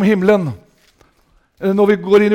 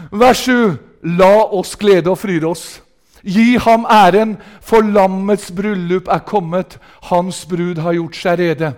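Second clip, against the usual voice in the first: scripture reading; slower than usual. Real, not acted. Reads scripture solemnly.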